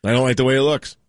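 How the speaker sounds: unintentionally robot-like delivery; robotic. Real, not acted. Host explaining a jersey number he dislikes, slightly robotic. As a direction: say it a little like a robot. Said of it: "That was robot".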